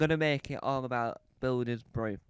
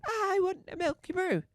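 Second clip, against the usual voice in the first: mock threat. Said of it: "I don't sound threatening enough".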